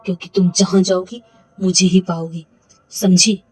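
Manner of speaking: a loud, slow menacing husband; menacing threat. Acted. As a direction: lean in and threaten her. Husband threatens captive wife.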